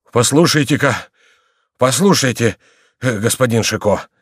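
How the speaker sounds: taken aback, broken into short bursts; astonished. A narrator's reading. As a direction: try to get his attention in amazement. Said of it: "проговорил он с изумлением".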